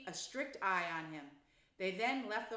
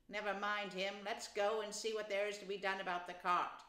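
firm Rat; 3 semitones higher than usual. Acted. The rat explains Toad's craze.

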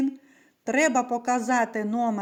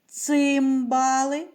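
slow sounding out; slower than usual. Shown as a demonstration. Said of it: "Наступний звук у слові".

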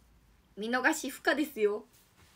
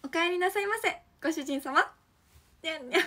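high cute welcome home master; sweet maid voice with a meow; sugary maid cafe greeting; 3 semitones higher than usual. Acted. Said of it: "じゃあやりますね".

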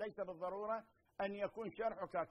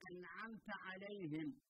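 Quran recitation; 8 dB quieter, slower than usual. Shown as a demonstration. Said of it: "في سورة الفاتحة مثلًا".

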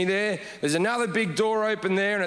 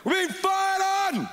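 high, slow alarm cry; freaked-out passenger shouting at the soldiers; panicked shout; 11 semitones higher than usual. Retold or imitated. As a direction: yell the alarm in full panic. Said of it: "I freak out".

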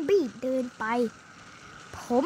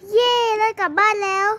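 gleeful cheer; 5 semitones higher, 5 dB louder than usual. Pretend. Cheering on getting home.

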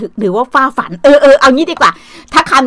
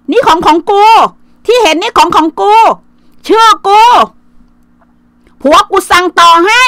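higher, sing-song mock brag; mocking a show-off; 6 semitones higher, 4 dB louder than usual. Aunt mocks a bragging woman showing off her things, higher mock voice.

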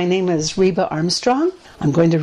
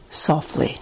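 breathy whispered "softly." dying away; 4 semitones lower, 4 dB quieter than usual. Acted. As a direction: whisper the last "softly." to nothing. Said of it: "Breeze gently whispers".

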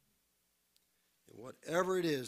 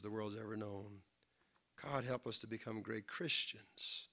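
prayer. Real, not acted. Pastor praying aloud over his congregation, earnest prayer. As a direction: lift the congregation up to God in prayer.

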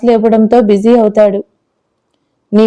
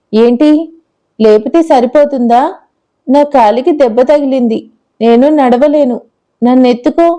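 lightly voiced little girl. Girl demands to be carried.

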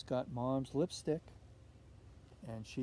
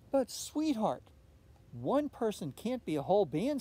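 gentle mother; 5 semitones higher, 5 dB louder than usual. A narrator's reading. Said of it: "said Olivia's mother".

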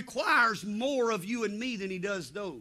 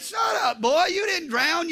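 high-pitched exasperated retort; acted scolding; 6 semitones higher, slower than usual. Dad to his wailing son, acted sharp scolding. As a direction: cut off the wailing, mock-stern.

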